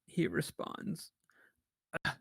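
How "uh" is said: weak, raspy captive forcing words out; halting raspy voice, pushed out with effort. Acted. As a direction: rasp it out in broken pieces. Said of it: "in a weak and raspy voice".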